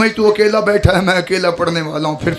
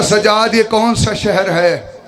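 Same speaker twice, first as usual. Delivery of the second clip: Zainab asking, slowly; slower than usual. Acted. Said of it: "बीवी ने कहा".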